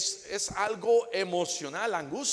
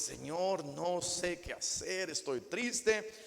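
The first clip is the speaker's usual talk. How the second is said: sad prayer; 5 dB quieter, slower than usual. Acted.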